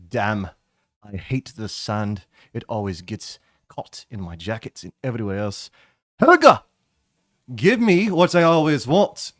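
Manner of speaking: grumbling about sand, then bellowing for a drink; gripe, then yell across the bar for Helga; Melvin's gruff entrance. Acted. GM voices Melvin entering tavern.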